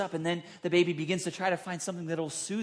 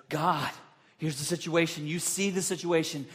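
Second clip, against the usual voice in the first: louder, urgent plea to God; earnest prayer; 4 dB louder than usual. Retold or imitated. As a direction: lay the problem before God firmly. Moses voiced praying to God.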